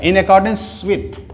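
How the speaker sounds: "In accordance with" drawn out slowly, stress on "accordance"; slow teaching read. Shown as a demonstration. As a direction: say it slowly for learners to follow. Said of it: "teaching a phrase". (धीरे-धीरे उच्चारण करके)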